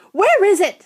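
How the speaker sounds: high, loud call from a crowd; shout. A narrator's reading. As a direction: yell it out eagerly. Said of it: "someone shouted".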